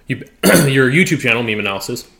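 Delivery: talking through chocolate; mouth full. Real, not acted. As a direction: speak around a mouthful of chocolate. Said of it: "I'm choking on this chocolate".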